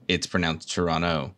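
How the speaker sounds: Toronto said tor-ah-no; Toronto, local dropped T. Shown as a demonstration. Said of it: "but locally".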